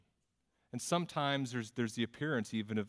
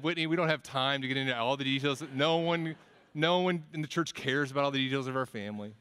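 mock exasperated retort; 2 semitones higher, 5 dB louder, faster than usual. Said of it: "And I said".

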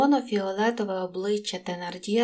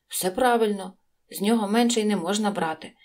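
ordinary delivery

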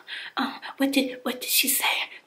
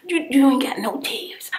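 furious; 3 semitones higher, 8 dB louder than usual. Real, not acted. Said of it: "I'm so mad".

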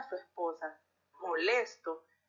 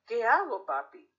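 worried daughter; 3 semitones higher, 5 dB louder than usual. Acted. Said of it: "los cambios de voces que hice".

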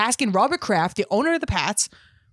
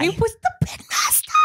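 excited tease. Real, not acted. Teasing about old bits.

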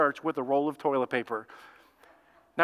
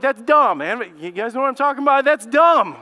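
louder, higher mock scoff; scoffing disbelief; 3 semitones higher, 4 dB louder than usual. Pastor scoffing to staff about toilet paper hoarding, loud mock disbelief. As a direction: brush it off as ridiculous, half laughing.

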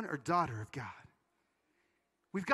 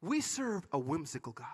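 wise wife; 2 semitones lower than usual. Retold or imitated. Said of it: "She's so wise".

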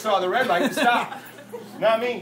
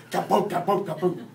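thumping "kaboom" in a steady beat; imitated heartbeat; 2 semitones lower than usual. Shaken driver dialing a phone, mimicked heartbeat. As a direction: pound out a racing heart. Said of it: "my heart's going".

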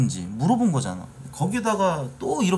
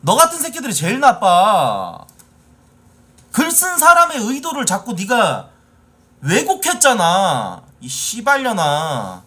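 furious shout; 8 semitones higher, 7 dB louder than usual. Real, not acted. Streamer yelling at a troll he is banning, loud and furious. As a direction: roar the insults at him with real fury. Streamer yells at banned commenter.

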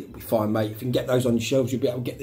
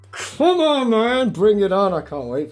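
much higher, loud pumped-up cheer; high, loud hyped-up fan cheer; 9 semitones higher, 5 dB louder, slower than usual. Real, not acted. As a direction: fire yourself up, can't wait. Hyped for the bar set.

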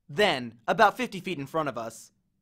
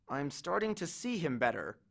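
muttered; 8 dB quieter than usual. A narrator's reading. Narrator mutters nervously as the giant dog appears. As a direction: mutter it under your breath. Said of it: "I muttered".

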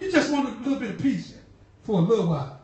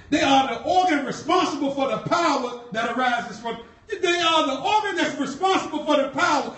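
preaches the repeated line louder, building; preaching. Shown as a demonstration. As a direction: drive the word organ home to the congregation. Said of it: "repeated louder".

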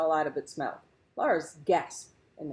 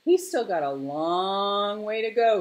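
hooting owl; 5 semitones higher, 8 dB louder than usual. A narrator's reading. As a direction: hoot it like a big snowy owl. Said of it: "hooted the owl".

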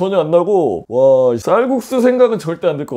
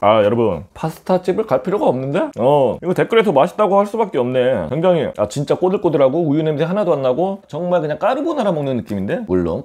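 chewing while talking; talking right after slurping; mouth full of noodles. Real, not acted. Seen 0: slurps noodles at -3 to -1, then talks chewing, chopsticks in hand.

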